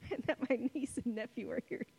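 giggling through the words; laughing. Real, not acted. Preacher laughing to the congregation about her niece and nephew. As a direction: laugh at your own joke. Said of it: "totally excited that I got to say poop face".

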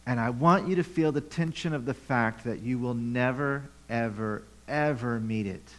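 voicing Jesus and James. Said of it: "They're saying".

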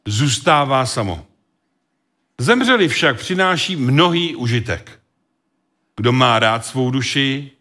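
measured, solemn reading of scripture. Acted. Preacher reads scripture aloud to congregation, solemn.

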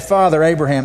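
mild acted cry for help. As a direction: call out as if pleading, lightly acted. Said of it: "he cried out and said".

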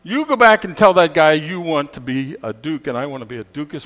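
nagging wife. Retold or imitated. Wife berating her husband over the wish, loud and scolding. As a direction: lay into him like a fed-up wife.

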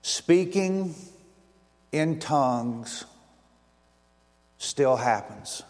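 slow, spaced, word by word; announcing the theme to the congregation, slow and weighty; slow emphatic theme. Real, not acted. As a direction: land each word slowly with pauses. Delivering the five-word theme.

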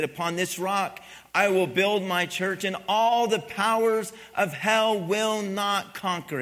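loud, emphatic declaration of scripture; forceful preaching. Real, not acted. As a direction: proclaim it firmly to the congregation.

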